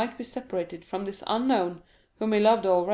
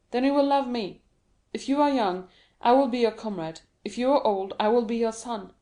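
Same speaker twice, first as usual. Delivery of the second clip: eager; 2 semitones higher than usual. Acted. Dantès eagerly offers friendship.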